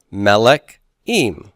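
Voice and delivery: "Melek im" slowly, stem and ending kept apart; "Melek im" in two separate pieces, first syllable of "Melek" stressed; unchanged stem plus ending. Shown as a demonstration. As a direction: say "Melek", pause, then tack on "im". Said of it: "add im to the end like this".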